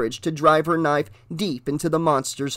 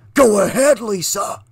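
croaking taunt; 5 semitones higher than usual. A narrator's reading. Monster taunting the girl with a wicked croak. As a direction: taunt her with a twisted grin. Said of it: "he croaked".

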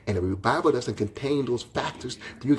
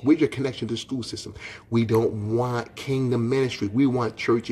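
full-force preaching; 2 semitones higher than usual. Acted. Pastor demanding answers from churches.

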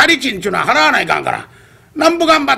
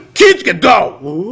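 slow, stern shout; angry shout; 4 semitones lower, slower than usual. Acted. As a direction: bark a warning at him. Old man scolds bearers.

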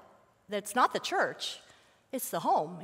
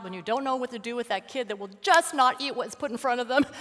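normal talking voice

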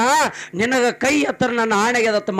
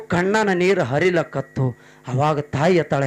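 plain reading voice

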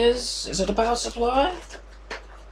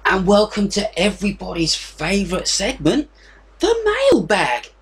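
terrible impression. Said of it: "that was a terrible impression".

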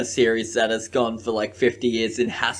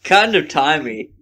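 quoting the catchphrase. Pretend. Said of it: "Say it".

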